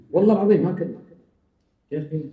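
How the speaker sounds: usual speaking voice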